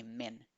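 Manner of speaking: "min" by itself, M joined to the vowel; second syllable alone. Shown as a demonstration. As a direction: sound out "min" as its own syllable. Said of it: "unir la M con la I". ("min" separado, la m unida con la i)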